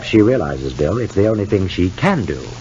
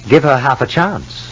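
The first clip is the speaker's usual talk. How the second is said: higher, slower, disbelieving repeat; incredulous echo; 6 semitones higher than usual. Acted. Husband repeating his friend's advice back, incredulous. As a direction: throw the words back in disbelief.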